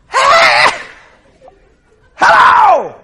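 high, loud call back; shouted greeting. Retold or imitated. Nephew answering his late aunt in a vision, shouting. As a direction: holler hello to someone far away.

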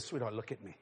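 low, hushed, earnest address; quiet, intimate pastoral voice; solemn blessing. Retold or imitated. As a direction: speak softly and gravely to her alone. Retells solemn words to cashier.

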